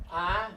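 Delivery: ah as an open A sound; vowel demonstration. Shown as a demonstration. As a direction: sound out ah alone for the letter A. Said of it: "when we say the letter A".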